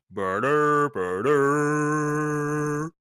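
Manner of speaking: long, droning horn call; imitated horn blast. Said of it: "you hear this kind of horn".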